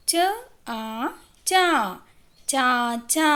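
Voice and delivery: slowly stretched vowel; drawn out. Shown as a demonstration. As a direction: stretch the आ long and slow. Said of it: "खींचकर बोलते हैं".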